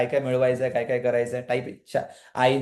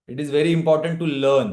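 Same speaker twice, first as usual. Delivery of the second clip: slow emphatic English; 3 semitones lower, much slower than usual. Shown as a demonstration.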